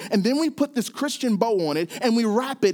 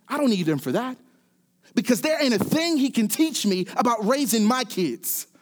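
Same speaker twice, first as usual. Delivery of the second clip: higher, raised voice, mock-defiant teen; defiant hurt son; 4 semitones higher than usual. Will telling Uncle Phil he never needed his father, defiant. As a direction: vow it like a wounded son, chin up. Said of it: "Word for word, this is what he says".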